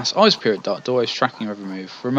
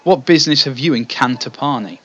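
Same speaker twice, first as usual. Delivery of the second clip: put-on British accent; 2 semitones higher, 5 dB louder than usual. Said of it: "ridiculously British accent".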